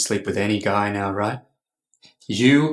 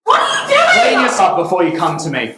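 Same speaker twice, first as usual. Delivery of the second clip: furious, much higher and louder; angry shout; 9 semitones higher, 7 dB louder than usual. Acted. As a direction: yell at her in rage. Furious at wife.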